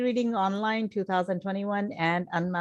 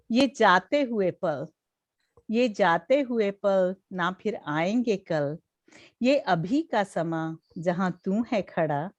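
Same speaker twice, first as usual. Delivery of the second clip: measured verse with pauses between lines; Hindi poetry recital; faster than usual. Acted. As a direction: recite your own farewell poem phrase by phrase. Recites own fresh farewell poem. (ठहर-ठहर कर कविता पाठ)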